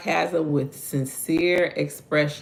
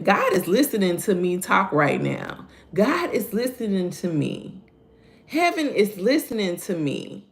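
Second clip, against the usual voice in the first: slow, sincere, higher reflection; slow reflective; 4 semitones higher than usual. Shown as a demonstration. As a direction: let each word sink in slowly. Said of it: "take your time and go slow".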